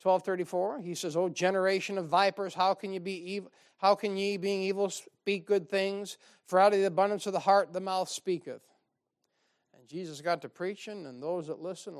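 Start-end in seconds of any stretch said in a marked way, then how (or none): 1.2-8.6 fiery rebuke. Acted. Quoting Jesus' rebuke fervently.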